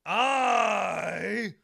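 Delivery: very slow, high, loud promo shout; Sergeant Slaughter cadence. Retold or imitated. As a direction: bellow each word with endless pauses. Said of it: "but of his cadence".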